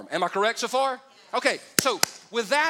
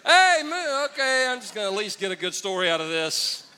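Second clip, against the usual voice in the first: hey man excited; 4 dB louder than usual. Retold or imitated. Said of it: "I probably would".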